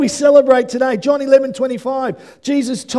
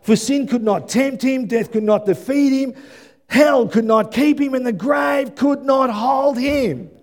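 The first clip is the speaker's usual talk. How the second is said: rising declaration. Acted. Preacher building over music.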